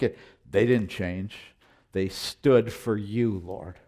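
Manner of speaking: earnest spoken prayer, unhurried; closing prayer. Acted. Pastor prays aloud for the church, in an earnest prayer voice. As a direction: pray over the church, sincere and steady.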